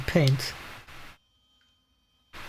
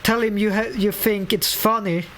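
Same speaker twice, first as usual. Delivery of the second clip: a lightly raised voice for the annoyed worker; reading voice for a game character; 3 semitones higher than usual. Acted. Player voicing the abandoned painter's complaints, lightly acted grumble. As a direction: read the worker's grumbling lines with a touch of put-on voice. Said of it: "I'm trying to develop a good voice for reading".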